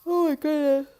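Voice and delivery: high amazed exclaim; surprised. Real, not acted. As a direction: gasp it out amazed. Reacting to a play.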